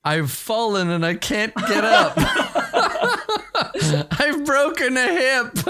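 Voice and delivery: put-on high, slow, laughing old lady; laughing mock old lady. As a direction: ham up a fallen old lady. GM mocks old-lady plea laughing.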